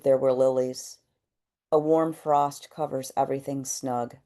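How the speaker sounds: measured poetry reading with pauses after each line; poem reading. Acted. Poet reads to a kind audience, measured poem reading. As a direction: read it as verse, letting each line land.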